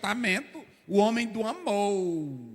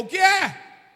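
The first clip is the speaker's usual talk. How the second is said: retold shout; 10 semitones higher, 6 dB louder, much slower than usual. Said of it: "Aí a mulher gritou".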